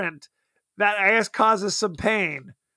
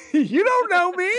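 mock paranoid echo; 10 semitones higher than usual. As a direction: throw the line back, strange and high. Echoing the paranoid line.

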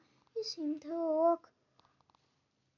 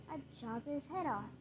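whispered; 8 dB quieter than usual. A narrator's reading. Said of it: "whispered the Grand Duke".

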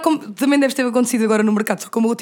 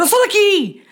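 higher, proud Caldas exclamation; Caldas accent; 8 semitones higher, slower than usual. Retold or imitated. Local from Caldas getting worked up in Lisbon, Caldas accent. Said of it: "mesmo à Caldas".

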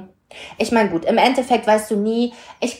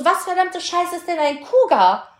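high, outraged mock question; outraged disbelief; 8 semitones higher than usual. Retelling her outrage at her friend's word, high and incredulous. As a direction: demand to know what on earth it means. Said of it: "Ich so".

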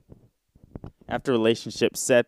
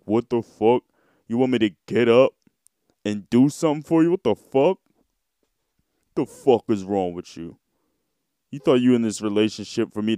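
a hammed-up angry girlfriend; mock angry girlfriend; 3 dB louder than usual. Vlogger mocking an aged relationship, hammed-up angry rant. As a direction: snap it like a fed-up partner. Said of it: "And then it's like".

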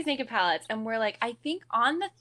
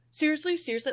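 mildly heated retort, pitched higher; a little heated; 6 semitones higher, faster than usual. Retold or imitated. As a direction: imitate someone getting slightly worked up. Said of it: "getting a little heated".

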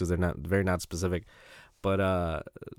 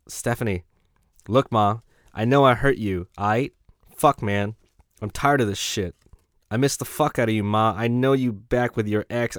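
emphatic, slightly louder letter reading; lightly voiced lovelorn prisoner; 2 semitones higher, 4 dB louder than usual. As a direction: plead with an ex, a touch worked up. Reads prisoner's love letter aloud.

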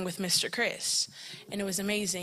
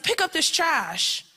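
loud, high, drawn-out command; imitated yelled order; 8 semitones higher, 7 dB louder, slower than usual. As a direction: shout it slowly like a drill instructor. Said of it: "And then he's yelling".

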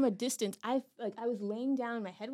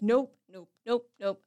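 firm refusal; 5 dB louder than usual. Retold or imitated. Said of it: "I'm just like".

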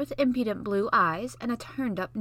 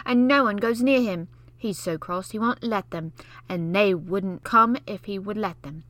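put-on know-it-all boy; 6 dB louder than usual. Basil lecturing Mary, know-it-all scorn. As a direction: lord it over her.

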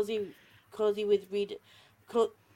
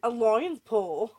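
put-on Australian accent; 3 semitones higher than usual. Retelling the accent game to a guest, mock Australian accent. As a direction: ham up a bad Aussie accent, drawn out. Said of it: "We got stuck in Australian accent".

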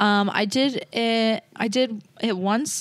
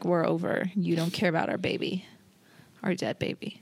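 mock dramatic whisper; 3 semitones lower, 6 dB quieter than usual. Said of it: "I was like".

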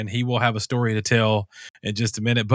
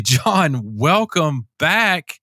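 welcoming announcement; 4 semitones higher, slower than usual. Pretend. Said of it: "I'm gonna say".

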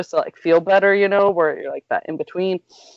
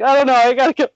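high, a bit louder, frantic; panicked yelling; 7 semitones higher, 4 dB louder, much faster than usual. Retold or imitated. Answering husband from the van, frantic higher voice. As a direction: rush it out in a panic. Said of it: "I'm, like, yelling, freaking out".

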